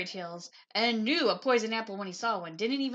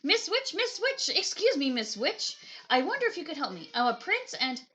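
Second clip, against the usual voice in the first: prince calling out; 3 semitones higher, 4 dB louder than usual. Acted. Prince calls to witch.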